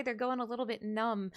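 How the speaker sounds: ordinary talk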